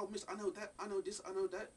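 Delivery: lively mock schoolchild eagerness; eager child. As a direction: imitate an excited child boasting to the teacher. Retells daughter's eager museum boast.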